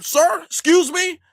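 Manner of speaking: high, slow mock-polite address; lightly voiced prissy politeness. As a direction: play it prim and proper. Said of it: "you be like".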